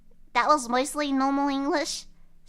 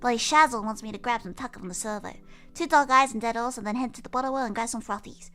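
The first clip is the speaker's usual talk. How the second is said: Aussie slang speech; faster than usual. Shown as a demonstration. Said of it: "This is the beginner level".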